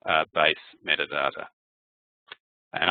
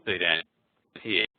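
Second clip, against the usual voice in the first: choppy call audio; glitchy robotic call dropout; breaking up audio. Real, not acted. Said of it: "your audio is breaking up extremely badly".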